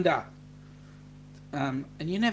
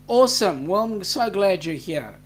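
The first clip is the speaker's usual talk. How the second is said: excited burst; 7 dB louder than usual. Real, not acted. Excited reaction to chat.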